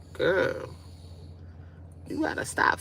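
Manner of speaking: unvoiced whisper to herself; half-whispered warning to self; whispered self-scold. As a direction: hiss it to yourself.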